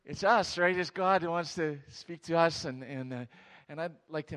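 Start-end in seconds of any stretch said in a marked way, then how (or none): 0.1-2.7 much louder, higher punch; preacher hammering the point; emphatic preaching. Real, not acted. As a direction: drive the point home loudly. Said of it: "preacher's emphatic punchline".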